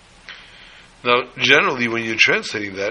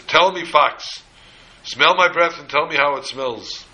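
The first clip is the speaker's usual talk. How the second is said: lightly voiced demanding king, a little higher; commanding lion; 3 semitones higher, 3 dB louder than usual. Lion to the fox about his breath, mildly imperious command. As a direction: order the underling lightly but firmly, pitch raised.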